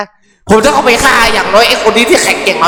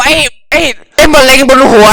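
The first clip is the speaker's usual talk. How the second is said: angry yell; 4 semitones higher, 4 dB louder than usual. Real, not acted. Insulting villain at screen.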